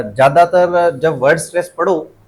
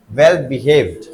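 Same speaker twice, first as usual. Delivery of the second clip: वेल बिहेव्ड with stress on the हेव्ड of बिहेव्ड, falling; stress on BEHAVED; 3 semitones lower than usual. Shown as a demonstration. Teacher correcting where stress goes, stress on बिहेव्ड. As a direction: lean on बिहेव्ड, let it fall. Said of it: "बिहेव्ड पे आना चाहिए".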